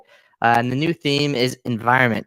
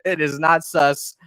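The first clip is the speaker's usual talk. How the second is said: earnest assurance; 5 semitones higher than usual. Real, not acted. Insisting it is not a scam.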